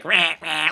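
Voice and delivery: short imitated "rah, rah"; lightly mimicked flailing kid; mock angry little growl. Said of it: "like an angry little rabbit".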